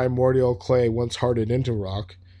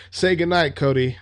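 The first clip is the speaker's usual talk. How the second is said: cold send-off; 5 semitones higher, 4 dB louder than usual. Acted. Killer's line before shooting, acted.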